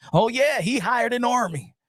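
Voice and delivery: lightly voiced televangelist; a hint of a preacher addressing the flock; Joel Osteen. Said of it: "I'm gonna talk like him".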